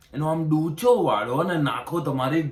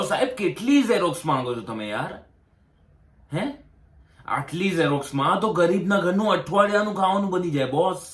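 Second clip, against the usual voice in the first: raised, indignant protest; exasperated complaint; 4 semitones higher than usual. Acted. Applicant complaining to the officer about photocopies, exasperated. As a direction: protest the absurd demand, voice climbing.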